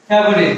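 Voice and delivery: ফেভারিট in three syllables, "fe-bo-rit"; common mispronunciation. Shown as a demonstration. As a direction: sound the middle vowel in ফেভারিট. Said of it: "আসলে শব্দটা ফেভারিট না". (ভুল উচ্চারণে ফেভারিট, "ফে-ভা-রিট")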